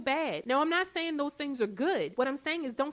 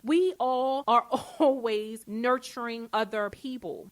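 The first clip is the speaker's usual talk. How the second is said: laughing; 5 dB louder, slower than usual. Real, not acted. Laughs while listing nurturing roles.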